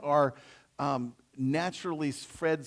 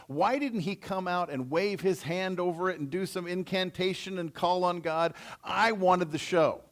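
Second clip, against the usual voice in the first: indignant self-important complaint, emphatic; 2 semitones higher than usual. Acted. Naaman complaining that the prophet skipped the show, mildly indignant. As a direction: protest like a slighted important man, leaning on key words. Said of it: "he gets indignant, really".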